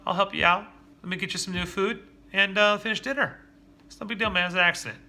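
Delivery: reassuring dad. Retold or imitated. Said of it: "Instead of having that old reaction".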